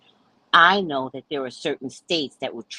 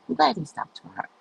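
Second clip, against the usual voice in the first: lightly needling, pitched up; retold little dig; teasing; 5 semitones higher than usual. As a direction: tease her with mock innocence. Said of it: "I'm teasing her now".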